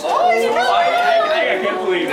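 breathless high fan excitement; thrilled. Acted. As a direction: squeal with fan delight. Fan thrilled at star singing.

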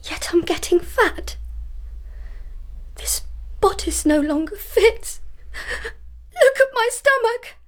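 whispered, then crying out in fear; frightened tears. Acted. Young woman crying in fear to her maid about her swelling body. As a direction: panic creeping into the voice.

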